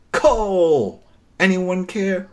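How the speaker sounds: hammed-up announcer reveal; mock dramatic reveal. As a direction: present the name like a big reveal.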